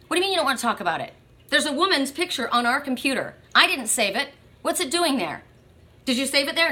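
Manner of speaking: mock interrogation, pitch lifted; acted-out suspicious grilling; accusing. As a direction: press the partner with indignant questions. Acted couple quarrel over saved picture.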